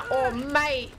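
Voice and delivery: a muddled put-on Australian and London accent; lightly mix Cockney with Aussie. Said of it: "It kinda sounds like I'm trying to do a London accent".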